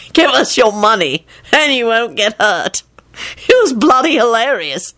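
laughing retelling. A narrator's reading. Lupin quoting the hapless mugger, amused. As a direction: savour it as if fighting giggles. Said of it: "he broke out laughing again".

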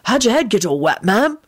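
gently concerned question; solicitous younger medic. A narrator's reading. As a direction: ask with concern. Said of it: "with a concerned air".

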